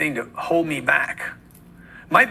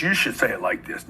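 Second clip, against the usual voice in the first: mocking a sales mirroring trick, lower and softer; mock mirrored voice; 6 semitones lower, 4 dB quieter than usual. Shown as a demonstration. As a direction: lower and softer, mimicking the other person.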